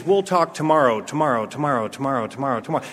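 trippy echo dying out; fading echo. Retold or imitated. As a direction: let the word echo away. Echoing words heard while on mushrooms.

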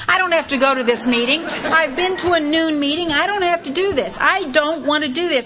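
high, complaining whine; a mock-whiny list of reasons not to go; whining excuses. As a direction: grumble every excuse you can find. Retelling her own grumbling excuses.

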